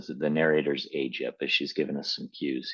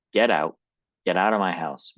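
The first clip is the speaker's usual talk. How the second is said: shrieking; 3 semitones higher, 3 dB louder than usual. Acted. Reading Mom ordering Dad out of the house, a raised shriek. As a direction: order him out at the top of the voice. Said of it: "Mom shrieked".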